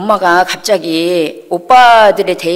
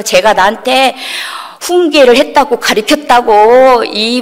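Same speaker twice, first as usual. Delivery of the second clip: mock yell, higher and drawn out; retold hollering; 3 semitones higher than usual. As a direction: imitate mom complaining for all the neighbors. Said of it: "막 소리를 고래고래 지르면서".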